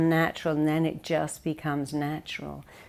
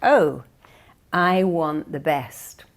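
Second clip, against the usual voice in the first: eager partner; 5 dB louder, slower than usual. Retold or imitated. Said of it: "He went".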